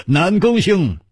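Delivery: high, hearty hail to a friend; jovial greeting. Acted. Chu greets his friend Nangong, jovial high call. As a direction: hail him cheerily, pitched high. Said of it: "楚留香哈哈一笑".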